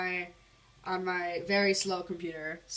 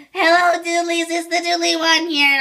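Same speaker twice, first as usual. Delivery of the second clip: put-on much higher and louder, a squeaky kid greeting; old little-kid intro voice; 9 semitones higher, 13 dB louder than usual. Vlogger mocking his old childlike intro voice, high and loud. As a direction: chirp it like a young kid opening his channel. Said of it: "my voice is also a little bit deeper".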